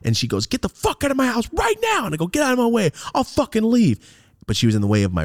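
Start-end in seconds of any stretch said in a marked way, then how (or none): 0.5-2.1 high-pitched furious demand; angry mother's order. Retold or imitated. Retold mother ordering him out. 2.3-4.0 high, heated demand; angry retort. Retold or imitated. Retold argument with mother.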